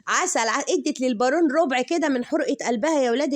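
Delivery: laughing. Real, not acted. Still laughing over the clip.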